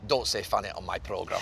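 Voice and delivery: low mock Scottish scold; deadpan Scottish producer telling him off, badly done; poor Scottish accent. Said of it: "It's my poor Scottish accent".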